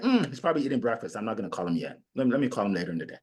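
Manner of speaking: fast muttered self-talk; stalling excuses. Retold or imitated. Caller makes excuses before an awkward call. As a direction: talk yourself out of calling.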